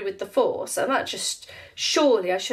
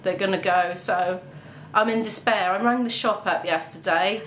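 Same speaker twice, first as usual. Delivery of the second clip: usual speaking voice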